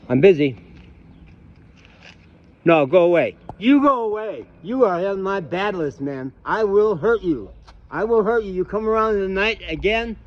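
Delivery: high-pitched, angry warning to back off; real anger. Real, not acted. Warning an intruder to stay away, real anger. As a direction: drive off an intruder with forceful, high-pitched threats. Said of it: "back before I got good at anger".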